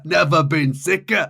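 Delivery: a hammed-up deathbed cry; mock dying shout. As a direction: shout the rhyme out, half-hammed. Uncle Ben's dying words.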